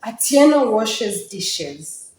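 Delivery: "Atieno washes dishes" slow, closed off as if at a comma; falling intonation with pause. Shown as a demonstration. Teacher shows the comma in the first line, falling tone and pause. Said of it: "Did you hear the comma?".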